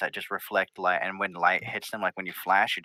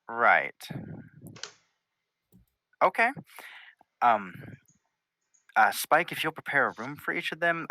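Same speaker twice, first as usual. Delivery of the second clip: Twilight Sparkle, hesitant hostess. Acted. Princess offers visitors rooms in castle, hesitant hostess. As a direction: play host haltingly, full of ums.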